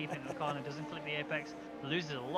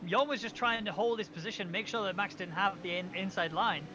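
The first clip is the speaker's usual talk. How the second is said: excited commentary; 3 semitones higher than usual. Real, not acted. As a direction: react to the contact live. Excited call of contact.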